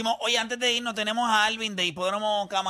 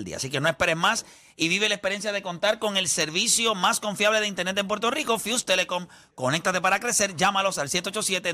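ad read. Acted. Host reads a sponsor ad.

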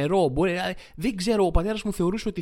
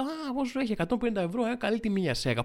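mock bargain excitement; 7 semitones higher than usual. Himself in the shop eyeing a saw, mock delight at the price. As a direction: play the clueless buyer thrilled by a deal. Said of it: "τη βλέπω και λέω".

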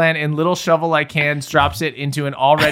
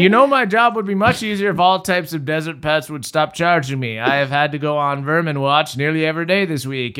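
put-on old man voice. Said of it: "voice of a friendly old man".

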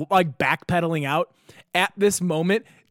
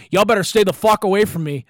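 put-on loud, higher-pitched drunk threat; raised-voice retold threat; calling across the room; 5 semitones higher, 7 dB louder than usual. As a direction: imitate a drunk warning people off from a distance. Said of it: "across the room, the guy goes".

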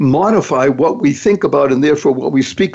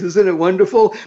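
usual speaking voice

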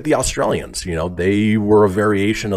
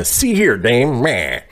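put-on old-time tough guy; slower than usual. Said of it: "you should be saying".

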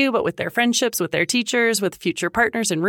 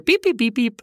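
mock decoder beeps; 4 semitones higher than usual. Mimics a decoder machine beeping.

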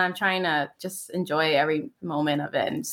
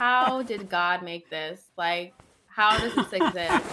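mock awe; slower than usual. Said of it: "I'm like".

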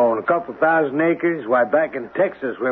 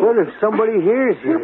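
menacing; 8 semitones higher, faster than usual. Acted. Man grows menacing.

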